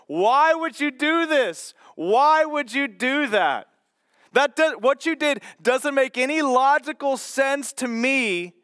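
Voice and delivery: mildly acted accusation, leaning on WHY; accusatory. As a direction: challenge them as if baffled by their decision. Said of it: "this accusatory question".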